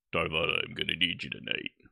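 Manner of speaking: put-on manly, gruff voice. Retelling last night's game, quoting Raj asking Tarval for help: imitating Raj's manly gruff voice. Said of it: "his manly, gruff voice".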